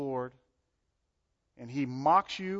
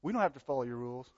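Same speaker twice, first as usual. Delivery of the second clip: mocking rebels; 3 semitones lower, 5 dB quieter, much faster than usual. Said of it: "Got the picture?".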